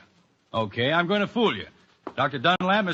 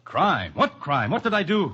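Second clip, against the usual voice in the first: stunned disbelief; 5 semitones higher, slower than usual. Acted. Accused man demands what crime.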